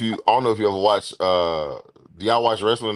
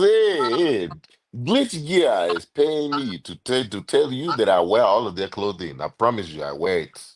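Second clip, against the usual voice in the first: lightly put-on Nigerian accent commercial; African accent. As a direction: play a Nigerian pitchman, lightly. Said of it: "You just let Tunde do your commercials".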